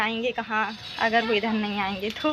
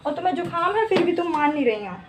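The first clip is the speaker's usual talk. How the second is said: mild scolding; 5 semitones higher than usual. Real, not acted. Mother scolding small daughter.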